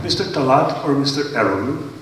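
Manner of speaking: ordinary talk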